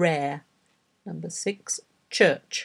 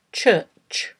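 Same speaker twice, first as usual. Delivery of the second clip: slow, careful single word; slow dictation; 3 dB louder, much slower than usual. Shown as a demonstration. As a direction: read it out slowly, pausing long between repeats. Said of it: "read ten words aloud slowly".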